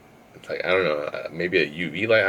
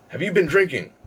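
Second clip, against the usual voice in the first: much higher, suspicious questioning; quizzing bouncer; 10 semitones higher than usual. Retold or imitated. Bouncer questioning a drunk patron, high and suspicious.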